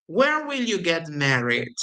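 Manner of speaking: "Where" stressed, voice falling to the end; teacher demo of falling intonation; falling question tune. Shown as a demonstration. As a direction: let the wh-question drop at the close. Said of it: "The intonation goes down".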